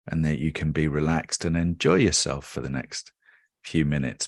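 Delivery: calm, measured meditation guide with long pauses; unhurried guided-relaxation delivery with settling phrase ends. Real, not acted. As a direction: ease the listener into stillness, leaving space between phrases.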